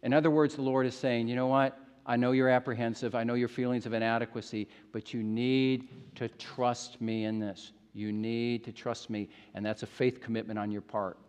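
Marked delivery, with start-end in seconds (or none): 1.3-11.2 gentle reassurance. Acted. The Lord asking Moses for trust, gentle reassurance.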